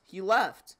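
loud shocked repeat of "He left.". Real, not acted. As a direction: blurt "He left." in shocked disbelief.

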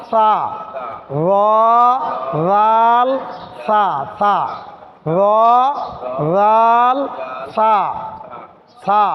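র, রাল, সা each said soft and light; soft letters drill. Shown as a demonstration. Teacher drilling the soft letters for students. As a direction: keep র, রাল and সা soft and rounded. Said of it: "নরম করে পড়তে হয়".

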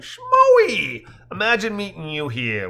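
loud, high drawn-out cry, then easing; big theatrical greeting, high-pitched; declaimed greeting. A narrator's reading. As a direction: declaim it like a grand hail.

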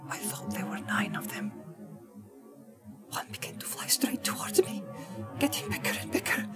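halting whisper, growing a little stronger; low, hesitating voice. A narrator's reading. Hobbit telling the wizard his vision, hushed and hesitant. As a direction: recount the vision in a frightened, breathy hush. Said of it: "In a low, hesitating voice, Pippin began again".

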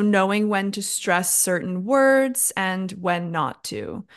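emphasis on "words", falling away on "not to"; stress on WORDS. Shown as a demonstration. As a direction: lean on "words" as the key word of the phrase. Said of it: "I stressed the word words".

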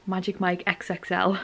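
soft, low late-night voice; quiet bedtime sign-off. Real, not acted. Vlogger saying good night to viewers before bed, quiet. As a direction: keep it down, winding down for sleep.

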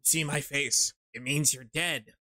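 slow edgelord voice; brooding fake-deep mutter. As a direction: brood it like a moody antihero. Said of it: "to talk like this".

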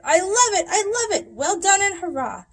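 high, loud, delighted cheering; squealing with delight; excited cheer. A narrator's reading. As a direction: cheer it like a thrilled kid. Skinny Doug's excited cheer.

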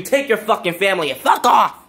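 cursing him out to leave; angry outburst. Real, not acted. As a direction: spit it at him like a send-off. Cursing out departing president.

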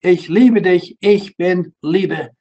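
slow, loud and tender German words; voice of God. Retold or imitated. God speaking to a boy in the forest, slow and loud. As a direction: speak as the loving voice of God, slowly. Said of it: "And the voice said".

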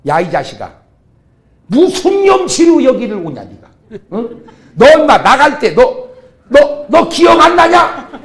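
loud, high, laughing scold; mock scolding father. Father yelling at returning prodigal son, loud mock rebuke. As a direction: ham up an outraged father's rebuke.

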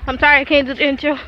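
breathless, catching air between words; winded from walking in snow; out of breath. Real, not acted. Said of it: "I'm out of breath".

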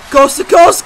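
rising commentator shout; announcer shout. Acted. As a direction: call it out as the move starts. Calling a wrestling finisher.

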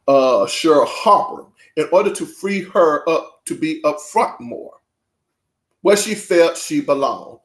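deliberate, emphatic reading voice; measured read-aloud with punched phrases; book read-aloud. Acted. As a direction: read it out to an audience with weighted key words.

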